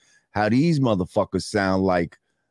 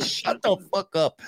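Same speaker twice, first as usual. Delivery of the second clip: mock Batman growl; 11 semitones higher, 3 dB quieter than usual. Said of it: "Sounded like Batman Begins".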